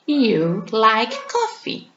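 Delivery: slow, careful read; teacher example drawn out; slow model sentence. Shown as a demonstration. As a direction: spell it out slowly. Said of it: "por exemplo".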